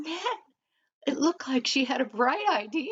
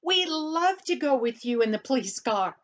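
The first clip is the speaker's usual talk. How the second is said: eager; 4 semitones higher, 4 dB louder than usual. Acted. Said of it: "his eyes all sparkled".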